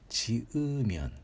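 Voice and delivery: チウミョン with a distinct, drawn-out ウ; linking U retained. Shown as a demonstration. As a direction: say チウミョン slowly, keeping the ウ audible. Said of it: "消えないことです". (チウミョンの「ウ」を消さずにゆっくり発音)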